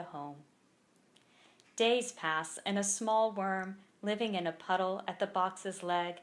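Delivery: measured poem recital with pauses between lines; poem read aloud at a live reading; poetry reading. Acted. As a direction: read each line deliberately, letting it land. Reads poem from the book.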